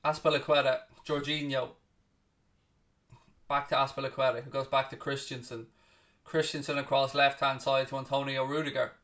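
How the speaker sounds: steady play-by-play, calling each pass as it happens; live commentary. Acted. Calling the Atletico v Chelsea match for viewers, play-by-play commentary. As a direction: talk the match through like a broadcast caller.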